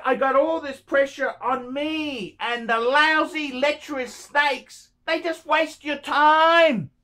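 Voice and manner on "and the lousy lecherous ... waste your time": exasperated rant. Real, not acted. Complaining about timewasters.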